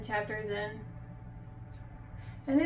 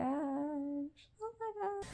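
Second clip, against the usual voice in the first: breathless whisper; 11 dB quieter, much slower than usual. Real, not acted. Overwhelmed by book.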